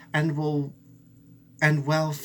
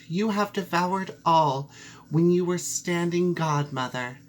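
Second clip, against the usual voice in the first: higher, bitter reproach; accusing mouse; 5 semitones higher than usual. Acted. Mouse accuses the cat, higher and reproachful.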